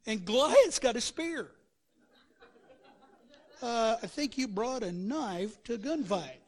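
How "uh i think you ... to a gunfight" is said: laughing quip. Acted. David mocking Goliath, laughing.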